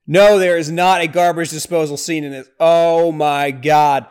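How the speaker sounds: loud, disbelieving cry; horrified. Real, not acted. Reacting to the gory scene, loud horrified disbelief. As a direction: gasp out in disgust.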